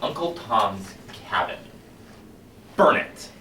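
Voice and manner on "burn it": hissed, unvoiced burn order; whispered command. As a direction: breathe the order like a secret. Chanted burn commands, whispered take.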